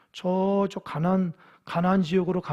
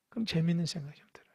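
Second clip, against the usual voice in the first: whisper; 7 dB quieter, faster than usual. Real, not acted. Aside to congregation about toilets.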